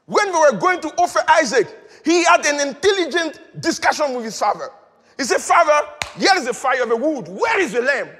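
emphatic preacher's delivery; preaching. Real, not acted. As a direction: proclaim it to the congregation. Preaches at raised force.

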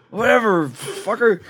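high, laughing brush-off; laughing dismissal. Retold or imitated. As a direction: toss it off while laughing. Laughing dismissal after refusal.

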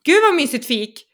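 high gushing compliment, acted out; guilty over-praise. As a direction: overcompensate with hurried high-pitched praise. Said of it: "får jag så dåligt samvete".

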